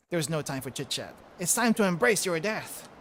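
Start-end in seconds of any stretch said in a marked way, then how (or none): 1.4-2.9 villain's battle cry. Acted. Villain declares fight.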